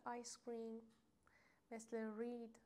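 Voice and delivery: آیس کریم and رید with a long "ee"; long "ee" vowel. Shown as a demonstration. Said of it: "صدای ای بده".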